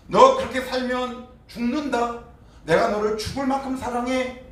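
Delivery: high, slow pleading love; God as a father warning and loving; earnest father's voice. Retold or imitated. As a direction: plead with a wayward child. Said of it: "이 음성이 안 들리세요".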